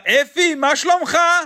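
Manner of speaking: cheery phone greeting. Acted. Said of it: "ele me liga e fala".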